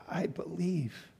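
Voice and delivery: slow, breathless whispered confession; the father confessing his faith to Jesus; pleading whisper. Acted. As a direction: whisper it, barely holding together.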